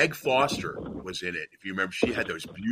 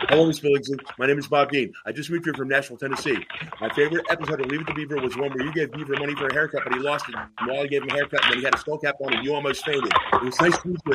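rushed, starry-eyed fan speech, higher and fast; starstruck gushing; 5 semitones higher, 3 dB louder, faster than usual. Retold or imitated. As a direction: gush at her like a nervous fan. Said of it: "I was starstruck".

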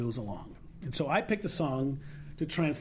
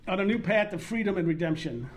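Brooklyn accent. Shown as a demonstration. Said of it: "I do it with my dad's Brooklyn accent".

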